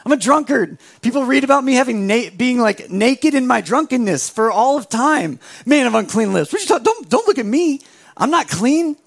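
Noah waves off the choice; Noah protesting. Retold or imitated. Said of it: "Noah's like".

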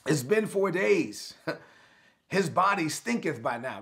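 very high, strained no; protesting Martha. Retold or imitated. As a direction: squeal out a frantic objection. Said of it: "Martha said".

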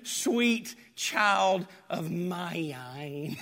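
tender pardon. Acted. Forgiving blood voiced tenderly.

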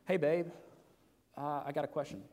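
gentle, affectionate "Hey, babe, I got a question"; sweet ask to wife. Shown as a demonstration. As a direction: ask it like you're sweet on her. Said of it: "You, you see the difference there?".

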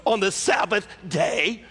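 "on the Sabbath day" slow and set apart, rising at the end; spoken air quotes. Acted. Jesus quoting the rulers' objection, "on the Sabbath day" in drawn-out air quotes. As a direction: stretch "Sabbath day" into a mocking question. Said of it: "he put in quotes".

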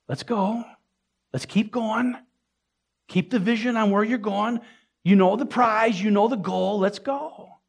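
encouraging urging. Acted. Jesus urging a believer to keep going, encouraging. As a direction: spur someone on, pitch lifted.

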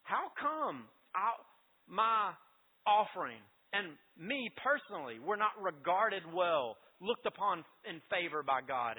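emphatic, mildly indignant complaint, word by word; ticked-off Cain. Acted. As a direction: act out a touch of wounded anger. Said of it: "Cain gets really ticked off".

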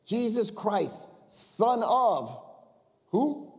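lightly hammed demon cry; voiced demon. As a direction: call out the name like a possessed man. Preacher voices demon crying out.

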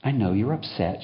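calm him down. Acted. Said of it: "she encourages calm".

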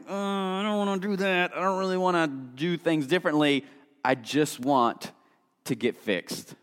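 a lightly voiced grumble of not wanting to change; mock reluctant whine. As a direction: whine it like someone dodging the work. Mocking people avoiding hard change.

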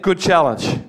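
said through a laugh; laughing reply. Retold or imitated. Preacher retelling his answer to friends, laughing. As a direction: chuckle as you concede. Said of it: "Seriously. laughs".

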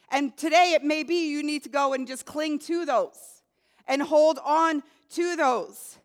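earnest prayer, speaking straight to God; heartfelt spoken prayer. Acted. Pastor models a prayer for the congregation, earnest prayer.

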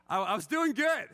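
loud, high mock self-defence; amused protest. Real, not acted. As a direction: protest loudly, playing it for laughs. Joking after the fake apology.

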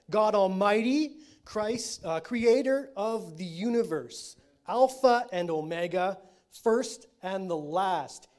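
slow, loud build of divine titles; litany of God's names, building; preaching at full force. Acted. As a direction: proclaim each name, rising in force.

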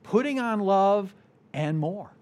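a light mock infomercial title; infomercial pitch. Preacher lightly mocks a TV ad to the congregation, playful pitch. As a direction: sell it lightly like a TV ad. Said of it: "it has a little infomercial flavor".

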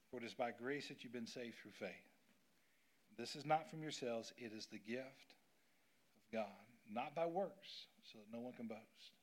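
soft, reverent scripture reading. Acted. Pastor reading Ephesians to the congregation, softly and reverently. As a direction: read the verse softly and reverently.

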